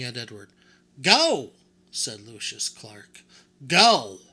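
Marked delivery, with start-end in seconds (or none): 1.0-1.5 a loud, high barked go; shouted order. Acted. Doll mender shouts at the lingering boy to go. 3.7-4.2 a loud, high barked go; shouted order. Acted. Doll mender shouts at the lingering boy to go.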